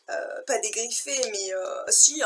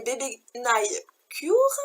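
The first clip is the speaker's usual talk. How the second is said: slow, careful product name in French-accented English; much slower than usual. Real, not acted. Vlogger reads an English brand name, French-accented English. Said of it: "Je m'excuse pour mon accent, euh, anglais".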